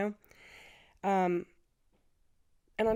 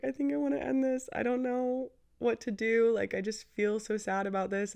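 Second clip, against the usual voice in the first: retold crying; 5 semitones higher than usual. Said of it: "we're both crying".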